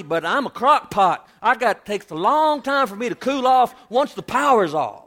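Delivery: lightly voiced wife scolding her husband; sassy wife voice. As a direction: play the wife telling her husband to back off. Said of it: "But the woman says".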